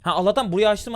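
usual speaking voice

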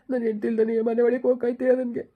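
tearful lament over his missing wife; crying husband misses his wife. Acted. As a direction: speak through sobs. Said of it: "ಅಳ್ಬೇಡ".

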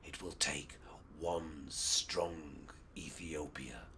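low, hushed secret whisper. Acted. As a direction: whisper it to a fellow spy. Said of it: "Ras Alula whispered".

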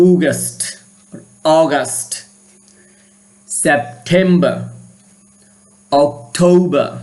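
অগাস্ট said as AW-gust; native-like English. Shown as a demonstration. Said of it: "আবার আমার সাথে practice করো". (ইংরেজি উচ্চারণের অনুশীলন)

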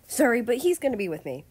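a rival's threat under polite words; hidden malice. A narrator's reading. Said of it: "attempted to hide the malice in his voice".

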